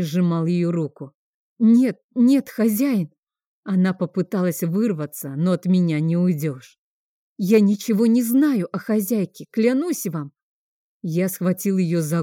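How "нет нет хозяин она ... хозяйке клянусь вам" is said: frightened pleading. Acted. Frightened cook pleading with master.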